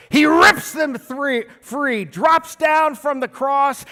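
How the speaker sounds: loud, slow, building excitement; hammed-up action. Preacher acting out an action-movie Jesus, slow loud and excited. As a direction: shout the rescue like a movie trailer.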